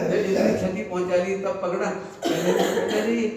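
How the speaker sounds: chuckling while quoting the guru; laughing through quote. Retold or imitated. Teacher retells guru's rebuke to listeners, laughing. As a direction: let laughter run under the words.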